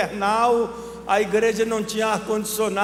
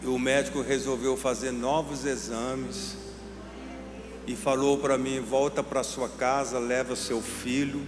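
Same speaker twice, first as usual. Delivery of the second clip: low, soft, measured storytelling; hushed and deliberate, with long pauses; solemn testimony; 6 semitones lower, 5 dB quieter than usual. Retold or imitated. Preacher retelling a mother's visit to the doctor, solemn.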